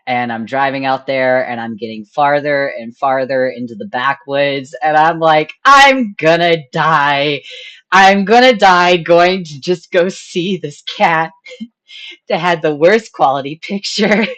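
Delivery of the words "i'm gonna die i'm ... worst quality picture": mock panic. Driving into the backwoods.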